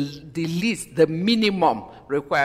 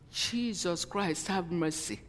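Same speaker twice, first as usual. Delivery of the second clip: hushed plea; 8 dB quieter than usual. Real, not acted. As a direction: breathe it out in disbelief. Shocked preacher calls on Jesus.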